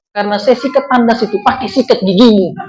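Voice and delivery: laughing through the punchline. Acted. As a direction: let a chuckle slip into the reveal. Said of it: "wife's punchline". (diucapkan sambil tertawa kecil)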